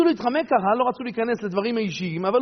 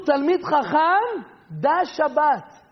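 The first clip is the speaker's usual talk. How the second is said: solemn quote; 3 semitones higher, much slower than usual. Acted. Quoting the Zohar slowly.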